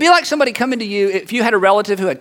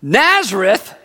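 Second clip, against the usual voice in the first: drawn-out, doubting one-word question; skeptical; slower than usual. Acted. Nathanael hears where the Messiah is from, skeptical. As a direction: query the town name in disbelief. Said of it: "Nathanael is a little bit skeptical".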